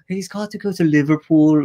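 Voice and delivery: put-on Merseyside accent; elongated Scouse vowels; Liverpool accent. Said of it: "the Liverpool accent".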